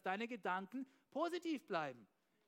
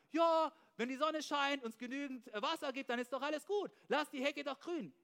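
mock carefree excuse; 4 semitones higher, 4 dB louder than usual. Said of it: "Da kannst du lang sagen".

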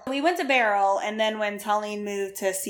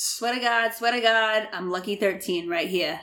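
put-on amateur Boston accent. Will swearing about his twelve brothers, in a Boston accent. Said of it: "I don't think your Boston accent".

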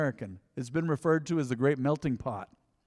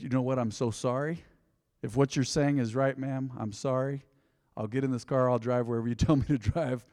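mildly apologetic; 3 semitones lower, 4 dB quieter than usual. Retold or imitated. Placating the angry officer in retold quote.

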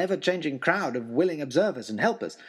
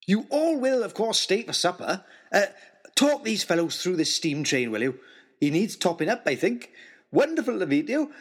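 a huge jovial man bursting with joy over a toy train; jolly giant host. Acted. Host welcomes them to supper.

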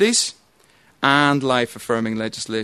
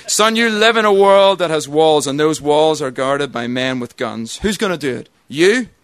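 put-on Colonel Jessup, no accent; 3 dB louder than usual. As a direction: declaim the colonel's courtroom rant without an accent. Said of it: "I can't do the accent. I'm not gonna try".

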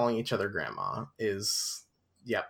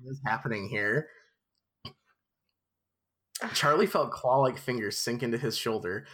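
measured storybook narration; story narration. A narrator's reading. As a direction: read it aloud like a novel. Reads the book aloud.

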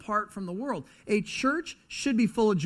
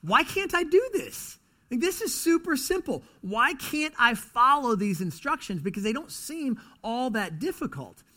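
frustrated Bible reader; 6 semitones higher than usual. Retold or imitated. Reader frustrated at himself over simple verses, pitched up. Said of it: "get frustrated at yourself 'cause you say".

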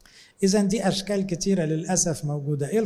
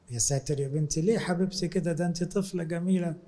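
tender reassurance; 5 dB quieter than usual. Retold or imitated. Priest soothing a child.

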